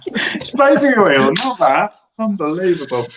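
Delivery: high, outraged disbelief; indignant protest. Real, not acted. Protesting the judge's joke.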